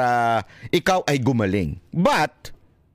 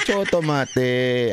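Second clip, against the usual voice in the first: "chotomate" stretched slowly, each syllable drawn out; slow emphatic "chotomate"; slow drawn-out word; much slower than usual. Shown as a demonstration.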